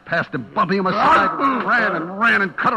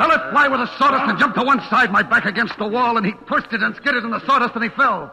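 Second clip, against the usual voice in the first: tense action; 7 semitones higher, 5 dB louder than usual. A narrator's reading. Action climax narration.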